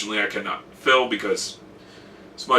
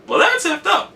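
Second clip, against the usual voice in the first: passionate professor quote. Retold or imitated. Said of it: "she'd be like".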